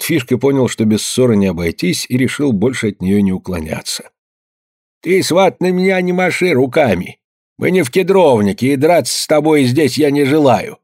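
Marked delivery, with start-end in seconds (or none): 5.0-10.8 high, firm indignant protest; old Fishka refusing to fight his in-law, raised voice; old man's retort. A narrator's reading. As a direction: stand up to him, voice raised. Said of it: "проговорил он".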